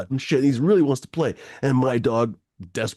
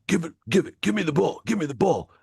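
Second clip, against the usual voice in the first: mock yell; 7 semitones higher than usual. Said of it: "starts to yell at my dog".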